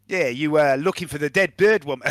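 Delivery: put-on accidental South African accent. Mercenary asks about missing woman, in drifting South African accent. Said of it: "I've gone South African now".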